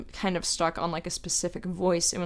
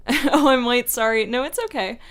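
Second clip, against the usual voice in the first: mock angry; 6 semitones higher, 8 dB louder than usual. Joke angry line example.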